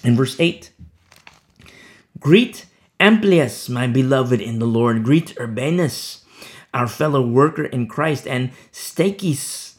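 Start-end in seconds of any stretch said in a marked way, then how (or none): 2.2-9.7 slow, weighty reading of names; slow scripture reading. Acted. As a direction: linger over each greeting.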